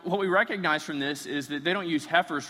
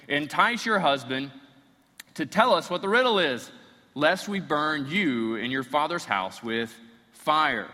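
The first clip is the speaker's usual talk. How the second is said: threatening; 5 dB louder than usual. Acted. Philistines threaten Samson's wife.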